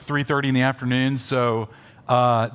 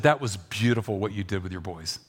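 sincere praise; 4 semitones lower than usual. Retold or imitated. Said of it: "I said".

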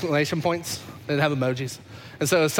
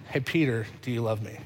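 softer, pleading repeat; 6 semitones lower, 5 dB quieter than usual. Acted. Repeat, fainter.

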